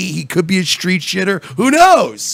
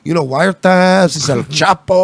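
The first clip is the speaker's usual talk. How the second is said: mock aristocratic Mexican accent. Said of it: "aristocratic Mexican accent".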